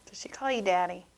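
whisper. Real, not acted. Teasing hushed gossip about daddy.

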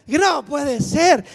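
loud, slow wail of disbelief; panicked shout. Retold or imitated. Seeing nine wrong answers, a panicked loud wail. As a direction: stretch it out in loud despair.

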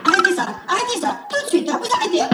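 fast, high, giggling objection; laughing high protest. Acted.

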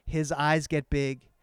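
drawn-out, suspenseful telling; slow motion. Shown as a demonstration. Man recalling his uncle's alarm at sea, slow-motion telling. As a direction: stretch it out like a slow-motion memory. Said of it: "into slow motion".

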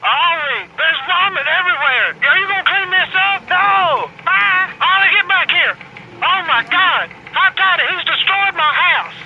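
panicked homeowner yelling at the mess; furious guy finding his trashed house; outraged homeowner. Acted. Homeowner finds vomit everywhere.

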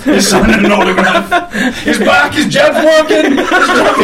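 high, excited calls through laughter; giddy, high-pitched mock commentary; excited onlooker. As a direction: play an amazed bystander, cracking up. Riffing excited onlookers spotting George Foreman.

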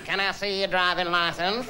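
slow pig impression with a cleft lip; lightly voiced pig, slow; pig with a hare lip. Shown as a demonstration. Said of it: "my impression of a pig with a hare lip".

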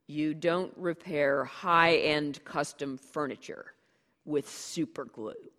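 slow, cutting scorn on super glue; scornful correction. Acted. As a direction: correct him slowly, with contempt. Fletcher scorns the super glue idea.

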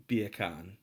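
beer can said as Jamaican "bacon"; Jamaican accent. Shown as a demonstration. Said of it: "bacon in a Jamaican accent".

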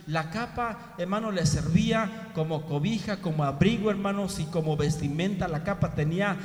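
loud, high, urgent sermon cry; full-force preaching. Acted. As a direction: preach it out, raising the voice to the crowd. (predicación a todo pulmón, con voz alta y fuerte)

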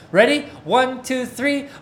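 loud, high, energetic count-in; rally the room to start together. Real, not acted. Pastor counting the group in to recite, loud and high.

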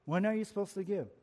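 "When are you supposed to give?" rattled off fast; fast restatement of the question; quick repeat. Shown as a demonstration. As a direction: toss the question out briskly. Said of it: "When, question".

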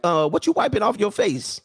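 playful acted interrogation; suspicious cat owner. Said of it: "You like".

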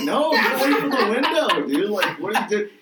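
half-laughing yell at a buddy; friends warning him. Retold or imitated. Friends telling stoned buddy away from window, laughing alarm. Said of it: "We're like".

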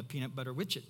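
quick "widget" said as "witch-it"; toddler mispronunciation. Retold or imitated. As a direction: borrow the child's "witch-it" for "widget". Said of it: "They were not saying it right".

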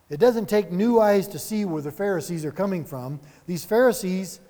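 ordinary talk

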